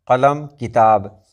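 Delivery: slow कलम with a back-of-throat q, then किताब with plain k; slow demo of कलम, किताब, q against k; qaf versus kaf. Shown as a demonstration. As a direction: spell out the contrast, q in कलम, k in किताब. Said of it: "दोनों में फ़र्क होता है".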